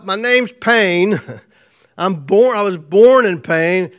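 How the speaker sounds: Jabez's anguish. Retold or imitated. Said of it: "he's gotta be thinking to himself".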